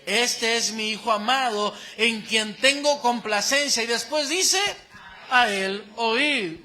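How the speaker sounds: voice from the cloud. Retold or imitated. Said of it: "una voz desde la nube".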